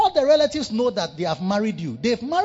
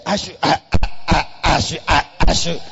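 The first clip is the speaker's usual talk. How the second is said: mock reluctant wife; 4 semitones lower, 5 dB louder than usual. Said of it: "Then the voice comes from here".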